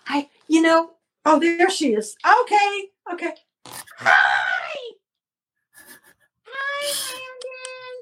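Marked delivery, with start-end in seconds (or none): 3.6-8.0 ventriloquist dummy greeting; bright puppet voice. Acted.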